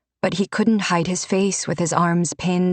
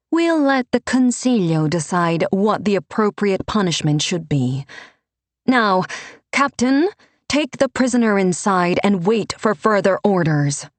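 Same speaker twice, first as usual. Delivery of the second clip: higher, firm and commanding; Renata's rebuke; 3 semitones higher than usual. Acted. Renata rebuking the priest, higher and firm. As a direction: put the priest in his place.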